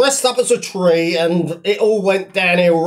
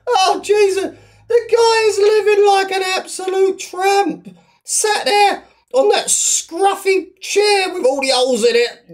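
mock anguish; 10 semitones higher than usual. Hammed-up despair at Shadow's state.

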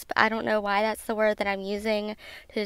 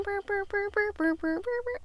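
imitated sparkly synth; 10 semitones higher, 5 dB quieter than usual. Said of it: "I can't even do it. I'm, I, I'm off tune".

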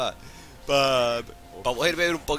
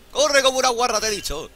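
excited yell; 8 semitones higher, 5 dB louder than usual. Real, not acted. Yelling at fleeing enemy.

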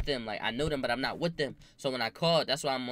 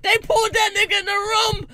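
laughing; 14 semitones higher, 8 dB louder than usual. Real, not acted. Repeats, laughter easing.

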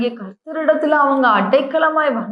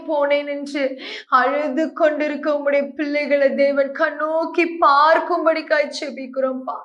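earnest pleading prayer voice; fervent prayer; 3 semitones higher than usual. Acted. Pastor praying to God for abandoned listeners, earnest. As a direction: pray aloud over the people, pleading.

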